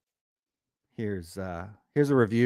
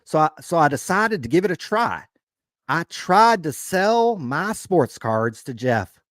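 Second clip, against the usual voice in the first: Southern accent; 3 semitones higher than usual. Shown as a demonstration. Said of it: "a little Southern accent for Atlanta".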